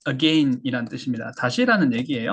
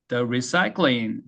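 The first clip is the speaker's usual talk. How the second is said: "recycling" with the stress on "cy", said very slowly; 3 semitones lower, much slower than usual. Shown as a demonstration. Teacher marking the stress for the class. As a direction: lean on the middle of "recycling". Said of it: "강세가 recycling 사이에 있습니다".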